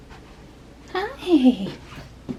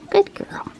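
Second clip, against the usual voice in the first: higher sing-song praise for the cat; pet talk; 4 semitones higher, 4 dB quieter than usual. Real, not acted. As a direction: lift it up cheerfully for her.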